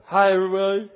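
put-on a light child's voice, chirpy despite tears; a toddler still saying hello through tears; tearful little boy greeting.

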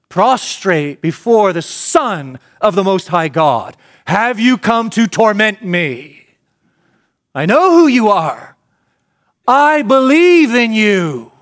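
high, loud, slow cry of a cowering demon; terrified demon. Acted. The demon Legion cries out to Jesus, high and terrified. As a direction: cry out in dread before the Son of God.

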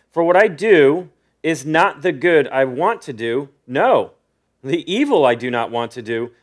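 deliberate scripture reading with weighted key words; slow reading. Real, not acted. Preacher picking up at verse nineteen, reading deliberately. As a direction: read it out measured, phrase by phrase. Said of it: "read it pretty slow".

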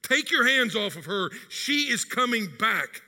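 firm spiritual command, slowed; a pastor's determined rebuke of Satan; declaring against Satan. Acted. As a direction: rebuke Satan with slow resolve. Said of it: "as if to say, quote".

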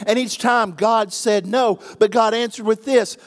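loud, rising preacher's call; full-force preaching. Acted.

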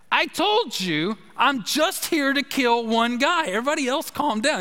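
a gunman repeating his threat; retold gunman.

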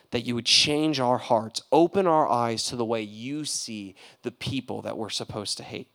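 fast, fervent preaching prayer. Acted. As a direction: pray over the group. Leads a prayer.

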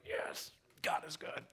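breathy whispered thanks to God; awed whisper of thanks; whispered prayer. Retold or imitated. Quoting own thankful prayer.

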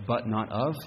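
"not of" leaned on with a rise on "of"; stress on not of. Shown as a demonstration. Preacher contrasting the two emphases, "of" rising and stressed. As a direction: push "but not of" and lift "of". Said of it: "Some of us like to emphasize the".

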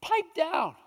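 hammed-up impatient reprimand, rattled off; crowd's scolding reaction. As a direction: imitate an annoyed crowd shushing someone. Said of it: "And the reaction is".

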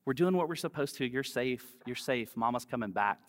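comforting. Retold or imitated. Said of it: "I say things like".

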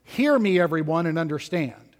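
an emphatic call to listen, strongest on HEAR. Retold or imitated. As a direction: lean hard on "Hear me". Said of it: "is emphatic in verse fourteen".

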